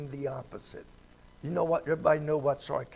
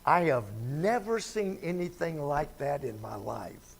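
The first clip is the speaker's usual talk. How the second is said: pointed double meaning. Retold or imitated. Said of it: "it was the way you said it".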